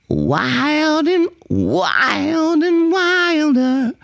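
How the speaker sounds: nasal high singing sliding in; twangy onsets. Shown as a demonstration. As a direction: slide into each onset through the nose. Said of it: "that twangy".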